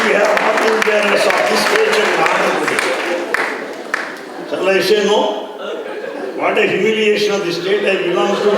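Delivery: loud, high, mock-offended complaint; indignant outburst. Swami scolding the speaker, loud mock indignation. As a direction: play Swami scolding about his home state.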